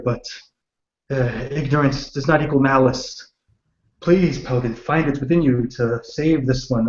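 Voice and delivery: hushed earnest prayer to a god. Acted. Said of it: "start to make a prayer".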